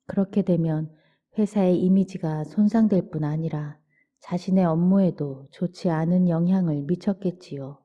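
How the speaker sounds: ordinary talk, nothing marked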